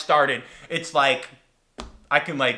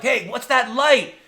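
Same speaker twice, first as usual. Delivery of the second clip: raised, drawn-out call; yelling ahead; 8 semitones higher, 4 dB louder, slower than usual. Retold or imitated. Tourist yelling ahead about a light, calling out. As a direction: call down a long tunnel. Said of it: "And I yell ahead".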